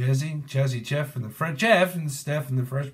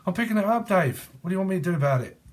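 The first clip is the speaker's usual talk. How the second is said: higher, sassy comeback; mock defensive; 6 semitones higher, faster than usual. Reader answering Dave in a higher mock huff. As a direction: snap back at Dave, half-joking.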